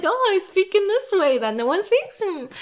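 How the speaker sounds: high, affected cutesy voice; mock cute voice. Mocking a character's affected speech, high cutesy voice. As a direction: parody a precious way of talking. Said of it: "it's like".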